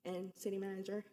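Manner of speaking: holding back tears while speaking; emotional voice. Real, not acted. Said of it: "Sorry, I'm emotional".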